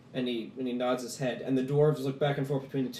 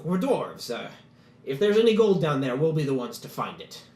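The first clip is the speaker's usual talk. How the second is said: a lightly voiced eager dwarf, a bit louder; lightly voiced dwarf making his case; dwarf petitioner; 4 dB louder than usual. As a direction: pitch the plan with hesitant eagerness. Gurgen answers honestly.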